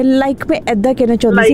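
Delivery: mock Anglicised Punjabi. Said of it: "वो एक word बड़ा आ जाता है".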